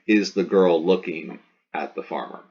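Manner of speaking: put-on even question, no word such as "girl" or "farmer" singled out; no emphasis. Shown as a demonstration. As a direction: ask it levelly, without a big rise on "farmer". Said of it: "no emphasis".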